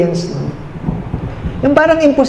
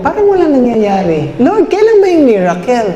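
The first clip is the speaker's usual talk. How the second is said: higher-pitched, mildly whiny mock plea; mock tearful complaint; 3 semitones higher than usual. Believer who only cries asks God for a miracle, mock complaint. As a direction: imitate someone pleading helplessly with God. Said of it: "pag umiiyak ka lang na ganyan".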